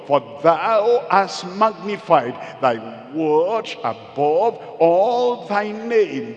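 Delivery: slow, drawn-out preaching on the verse; emphatic scripture declamation. Real, not acted. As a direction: proclaim the verse with rising force.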